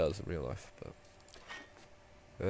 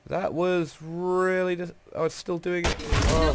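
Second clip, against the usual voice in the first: startled; 10 semitones higher, 7 dB louder, slower than usual. Real, not acted. Still reacting to the shock.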